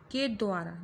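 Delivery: द्वारा pushed with a falling tune; stress on द्वारा. Shown as a demonstration. Teacher stresses द्वारा for students as the sign of passive voice. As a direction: hit के द्वारा so it stands out. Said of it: "द्वारा पे जोर दिया गया".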